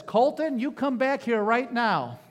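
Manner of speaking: stern mother's call. Retold or imitated. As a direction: call him back down the hall, no arguing. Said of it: "he knew the tone of that voice".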